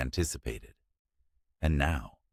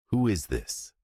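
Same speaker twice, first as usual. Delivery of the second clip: demanding, rising; 6 semitones higher than usual. A narrator's reading. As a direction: demand an answer, voice climbing. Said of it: "Mark demanded, his voice rising".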